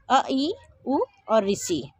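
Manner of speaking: अ, ई, उ and ऋषि said slowly, one by one; slow spelled-out vowels. Shown as a demonstration. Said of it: "मूल स्वर कितने होते हैं". (अ, ई, उ, ऋषि धीरे-धीरे अलग-अलग बोलना)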